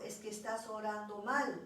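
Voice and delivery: gently, without raising the voice; calm counselor's soft reproach; soft gentle correction. Retold or imitated. The counselor softly tells her she prays wrong, gently. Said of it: "Y ella nunca levantó la voz, siempre suave".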